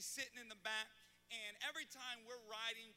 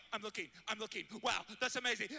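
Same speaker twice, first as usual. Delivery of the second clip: loud panicked yell, much louder; screaming while driving; 9 dB louder, faster than usual. Retold or imitated. Dad glancing back at son's drawing while driving, screaming. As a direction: yell it like you nearly crashed the car. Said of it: "why are you screaming".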